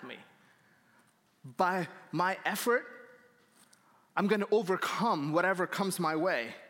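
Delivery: mock a proud, determined vow; puffed-up boasting. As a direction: act out chest-out confidence. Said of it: "With our chest puffed up, saying".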